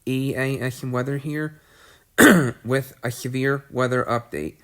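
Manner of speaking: stuffy, congested voice from a cold; blocked nose. Real, not acted. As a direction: talk through a blocked nose. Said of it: "I'm still very congested".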